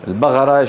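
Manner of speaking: البقرة with ق said as gh; Sudanese Qaf. Shown as a demonstration. Teacher imitating Sudanese speakers, ق turned to gh. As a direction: say البقرة as al-baghara. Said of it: "القاف ينطقونها إيه؟".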